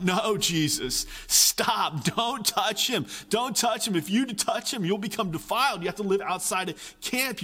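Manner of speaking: alarmed crying out. Retold or imitated. Israelites beg Jesus not to touch the leper, alarmed. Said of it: "they all would have been crying out".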